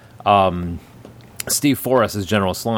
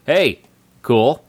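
laid-back horse; 4 semitones higher, 4 dB louder than usual. Acted. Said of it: "the horses are just kinda like".

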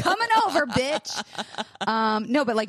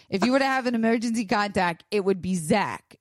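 imitating therapist; 3 semitones higher than usual. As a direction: copy the therapist's careful, slightly slowed way. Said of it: "and she does talk like this".

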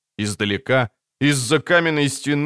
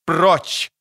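commanding shout; 6 semitones higher than usual. Acted. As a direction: drive them away with one word. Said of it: "крикнула она снова".

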